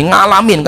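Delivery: "ngalamin" begun with a nasal ng; ng for ain. Shown as a demonstration. Teacher repeats the common Indonesian error, "ngalamin" with ng. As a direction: put "nga" in place of the ain in "ngalamin". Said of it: "Karena sukanya nga orang Indonesia itu".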